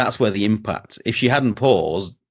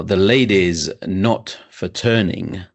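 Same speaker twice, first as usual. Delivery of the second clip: slow, deliberate mock Thatcher line; quoting Thatcher slowly; slower than usual. Retelling the famous speech line, slow and deliberate. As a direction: lay it down slowly, then hold the pause. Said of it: "she waits sixteen seconds".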